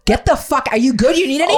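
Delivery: high, loud sarcastic concern; sarcastic fake care; mock outrage. New mother mocking her cashew-chewing husband, high, loud and sarcastic.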